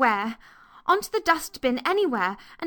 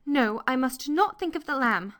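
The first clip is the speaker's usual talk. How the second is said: put-on high, self-scolding girl; talking to herself; 7 semitones higher than usual. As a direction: resolve it inwardly in a child's voice. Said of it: "she said to herself".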